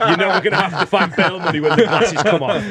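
laughing through the line; amused, laughing as the story lands. Real, not acted. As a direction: chuckle as you tell it.

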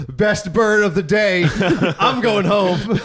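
drawn-out quote with a laugh creeping in; slow mock sign-off. Imagined soldier bidding the old waiter goodbye, slow mock sign-off. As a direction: deliver it slowly as a joke exit line.

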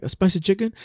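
imitating the takeout lady. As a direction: echo his order back as a puzzled question. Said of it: "that's how she talked".

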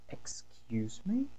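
slow whispered threatening "Excuse me?"; angry mom daring you to repeat it; stern mother. Acted. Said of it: "Sabe aquele tom assim". (mãe brava: "Excuse me?" sussurrado, lento e ameaçador)

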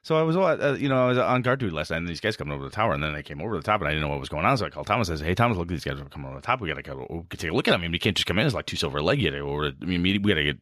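rushed fast report. Shown as a demonstration. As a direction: rattle it off quickly.

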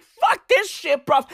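high, slowed outburst of mock anger; hammed-up, high-pitched indignation; retold anger. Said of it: "I was fucking angry".

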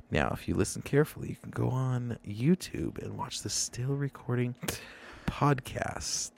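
wet, lisping plug read; spitty sibilants. Pretend. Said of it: "talk with a lot of spit in my mouth".

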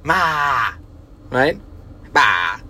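mock toddler wail of "Ma!"; half-hearted baby scream; imitating baby crying for mom. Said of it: "She'll be screaming".

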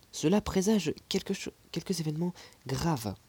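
a hint of an anxious old maid; worried old servant. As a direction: servant predicting trouble, mildly alarmed.

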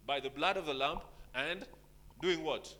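quoting scripture. Acted. Pastor reading Revelation to the church, declaiming. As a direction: proclaim the verse with weight. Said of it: "And he said".

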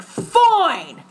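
loud, high mock surrender; exasperated giving in. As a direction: imitate someone caving just to end an argument. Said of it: "those arguments between a man and a woman".

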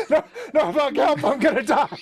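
high laughing mock panic. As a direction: squeal it in fake terror.

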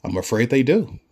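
smug official. Retold or imitated.

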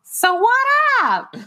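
lightly imitating mom, rising high; a hint of mom asking casually; man doing a woman's voice. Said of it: "a terrible mom voice whenever I'm imitating my mom".

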